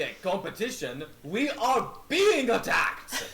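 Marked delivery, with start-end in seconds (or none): 1.2-3.3 loud, slowed alarm, pitched up; alarm call. Acted. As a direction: sound the alarm to the whole crew. Captain raises the alarm.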